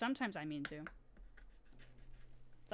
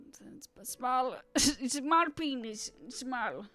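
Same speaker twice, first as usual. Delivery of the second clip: whispered then laughing, slow; laughing slowly through a joke; giggly whisper; 5 semitones higher, 8 dB louder, slower than usual. Real, not acted. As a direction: snicker it out. Joking about a Trump picture.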